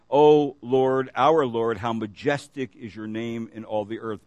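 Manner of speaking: measured, even reading of a psalm; scripture reading. Acted. Preacher reading the psalm to his congregation, measured scripture reading. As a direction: read the verses steadily to the congregation. Reads psalm aloud in sermon.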